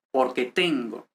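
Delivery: "porque" without accent, stress falling on "tengo". Shown as a demonstration. Teacher demonstrating where the accent goes, stress on "tengo". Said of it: "The accent goes here in the next word".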